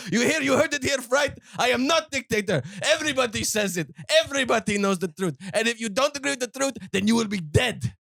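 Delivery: mock dictator. Comic dictator praising his interviewer, then threatening. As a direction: ham up a self-praising tyrant. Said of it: "The joke was, I am a dictator".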